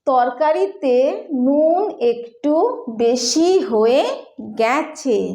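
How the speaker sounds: slow, hesitant polite complaint. Shown as a demonstration. Telling the cook the curry is oversalted, hesitantly. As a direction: ease it out gently, pausing a little. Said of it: "थोड़ा रुक के बोलेंगे".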